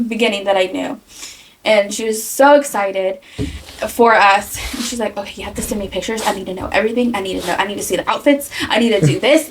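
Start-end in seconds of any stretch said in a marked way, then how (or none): 5.2-9.5 calm hippie friend. Retold or imitated. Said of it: "she's very calm and, like, hippie vibes".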